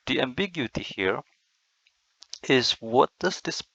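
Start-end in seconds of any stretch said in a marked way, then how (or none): 0.1-1.2 a whispered echo of the question; whispered repeat. Shown as a demonstration. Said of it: "What's the ambiguity here?".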